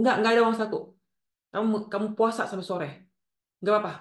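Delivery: mock a mother brushing off a request; dismissive mother. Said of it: "ibu yang begitu mengabaikan perasaan". (ibu menolak dengan ketus)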